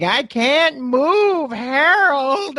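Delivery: put-on high, slow, strained old-woman whine; old lady on a scooter, stuck and flustered; panicky old lady. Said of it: "the woman's like".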